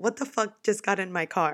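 mock-bewildered. Retelling how a French man reacted when the speaker got in his car, retelling a confused reaction. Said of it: "he's like, huh?".

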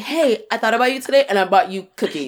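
smitten, doting, besotted, devoted tone. Acting out what an obsessed partner would say: imitating an obsessed lover. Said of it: "I want you to be like".

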